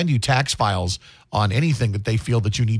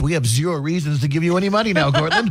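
high, smug voice of a greedy state; unhinged villain; 4 semitones higher than usual. Retold or imitated. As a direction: play the state as a gloating villain. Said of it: "the state goes".

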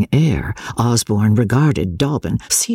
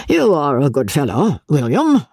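softened voice; 3 semitones higher than usual. Acted. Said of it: "in a softened voice".

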